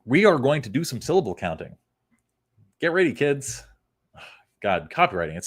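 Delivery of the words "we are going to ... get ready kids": mock teacher.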